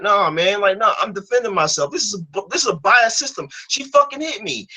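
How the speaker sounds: put-on teen defending himself to his mother; heated protest. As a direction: argue back like a defiant fourteen-year-old. Teen self arguing back.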